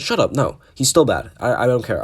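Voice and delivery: real irritation at the fans; real annoyance. Real, not acted. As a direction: shut the argument down, fed up. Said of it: "It's making me angry".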